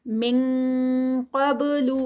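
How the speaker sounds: من قبل with an ng sound before heavy قاف; ikhfa demo. Shown as a demonstration. Teacher demonstrating ikhfa with ng sound. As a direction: glide the نون into an ng before قاف. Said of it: "آئی این جی کی sound آئے گی".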